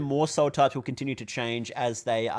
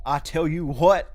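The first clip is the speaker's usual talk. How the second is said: slow drawling Texan catchphrase; Hank Hill; 4 semitones higher, 7 dB louder, slower than usual. Retold or imitated. Streamer answering a chat request, slow Hank Hill drawl. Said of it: "You're a Hank Hill impression".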